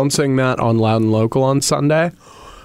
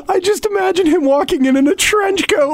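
excited; 13 semitones higher than usual. Real, not acted. Excited imagining, high pitch.

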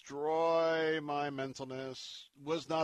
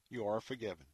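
"You are forgiven" repeated softer and lower; a quieter, lower "You are forgiven"; softer echo; 4 semitones lower, 5 dB quieter, faster than usual. Real, not acted. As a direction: let the second "You are forgiven" fall gently. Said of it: "repeated declaration".

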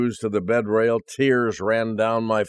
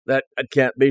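stammering; 3 semitones higher than usual. Retold or imitated. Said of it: "she stammered".

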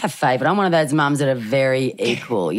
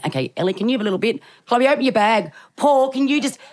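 panicky pleading; 9 semitones higher than usual. Retold or imitated. Panicked pleading to friends at airport.

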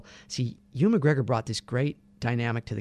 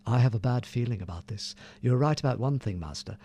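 Ewan McGregor impression. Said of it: "his first lines in that are".

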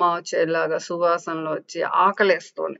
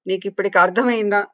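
angry scolding; 2 semitones higher than usual. Acted. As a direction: scold her for wasting food. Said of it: "కోపంగా అడిగింది".

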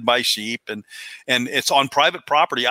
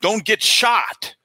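mock yell pitched much higher, drawn out slowly; retold yell; 8 semitones higher, much slower than usual. Old local calling a parting warning across the clubhouse, as a mock yell. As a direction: call it out slowly as a half-joking warning. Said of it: "he yells to me".

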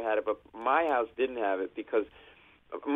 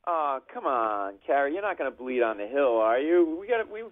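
mock callous kid; 5 semitones higher, 3 dB louder than usual. Mock dialogue to bleeding friend.

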